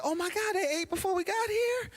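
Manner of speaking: high, gasping disbelief; shocked disbelief. Retold or imitated. Church lady to my mom, high shocked disbelief. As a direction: act floored by the news.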